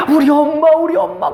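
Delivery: mock wail at the grave; wailing for mother. Daughter at her mother's burial, hammed-up wailing cry.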